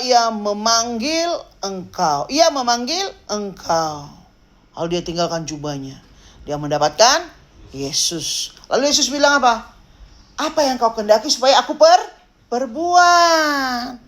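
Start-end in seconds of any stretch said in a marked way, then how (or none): 0.0-4.1 slow, measured proclamation; solemn repetition. Acted. Repeats crowd's words with weight. 10.3-14.0 raised, high proclaiming question; proclaimed question. Acted. Acts Jesus' question.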